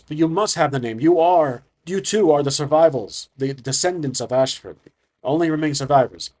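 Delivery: pushy councilman, leaning on key words. Acted. Councilman haggling with the survivors over the name, pushy. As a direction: insist firmly, pressing the point. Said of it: "is trying to be very pushy".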